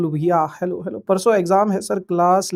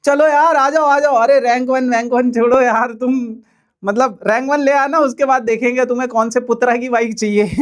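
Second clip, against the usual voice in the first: calling out; 4 semitones higher, 4 dB louder than usual. Real, not acted. Calling students to class.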